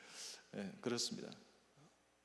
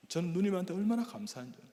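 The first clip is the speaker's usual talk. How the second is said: high, loud burst of gratitude; fervent thanks; 7 semitones higher, 5 dB louder than usual. Acted. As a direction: lift the voice in thanks. Sermon peak of gratitude. (높고 크게 터지는 감사)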